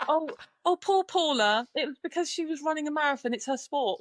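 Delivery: high-pitched, put-on pity; mock sympathy. Rider imitating public pitying Paula, mock sympathetic. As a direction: gush with feigned concern. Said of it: "everybody felt really sorry for her".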